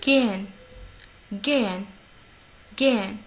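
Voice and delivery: GEHEN as "gé-en", barely any h; teacher's model "Gehen", h very faint; lightly pronounced H. Shown as a demonstration. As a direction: let the h in Gehen almost vanish. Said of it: "Il se prononce légèrement".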